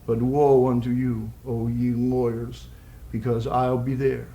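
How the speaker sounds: slow, deliberate poem recital; poetry reading. Acted. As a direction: recite it in spaced, measured phrases.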